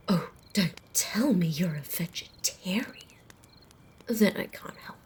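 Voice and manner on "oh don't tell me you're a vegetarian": mock gasp. Mock shock at vegetarian.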